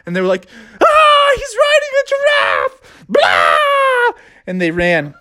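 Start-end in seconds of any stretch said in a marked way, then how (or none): 0.8-4.1 high scared shout; high panicked yell. Acted. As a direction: scream and flee.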